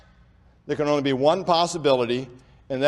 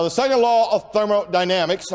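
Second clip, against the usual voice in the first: "thermodynamics" spoken carefully, part by part; deliberately slow enunciation. Real, not acted. Preacher managing a speech impediment before his audience, deliberately careful. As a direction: take care over each part of "thermodynamics". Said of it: "I'm trying to say that slow now".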